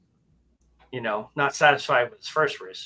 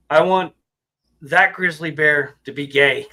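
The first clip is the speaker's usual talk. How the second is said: yelling back; 2 semitones higher, 8 dB louder than usual. Acted. Rabbit yelling back punchline.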